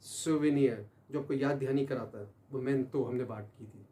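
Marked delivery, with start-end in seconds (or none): 0.0-0.8 "souvenir" said slowly as soo-vuh-neer, every syllable clear; careful pronunciation. Shown as a demonstration. Teacher models "souvenir" for students to repeat. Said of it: "दोबारा सुनिए, pronounce कीजिए".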